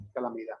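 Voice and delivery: "Calamidad" sin la d final, "calamidá"; d final caída. Shown as a demonstration. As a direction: termina "Calamidad" en vocal. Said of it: "ese fonema final tiende a desaparecer". ("Calamidad" dicho calamidá, sin consonante final)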